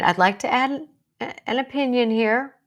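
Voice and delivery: a polite, sure suggestion at work; confident suggestion. Shown as a demonstration. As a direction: offer it with calm confidence. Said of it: "That's so beautiful".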